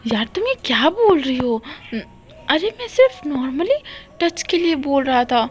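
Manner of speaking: a touch of exasperated innocence; defensive friend. Acted. Wing insists to Wangshi he meant nothing by it, mildly defensive.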